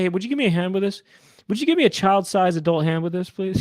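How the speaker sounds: casual request. Retold or imitated. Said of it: "you know how people say".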